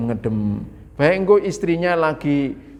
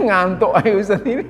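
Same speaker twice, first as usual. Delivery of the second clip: laughing as he says it, a touch louder; laughing mock complaint; 5 semitones higher, 4 dB louder than usual. Preacher teasing the congregation about dozing off, laughing. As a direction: tease the sleepy listeners through a laugh.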